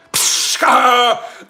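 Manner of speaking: hiss of escaping air. Acted.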